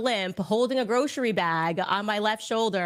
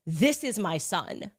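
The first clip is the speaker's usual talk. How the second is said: mysterious; slower than usual. Retold or imitated. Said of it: "really mysteriously".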